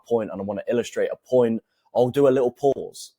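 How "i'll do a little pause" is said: long pause after pause; deliberate pause. Shown as a demonstration. Coach showing viewers a pause, dramatic pause after pause. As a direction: stop dead after the word pause to let it land. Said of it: "when I said the word pause, and then I actually did pause".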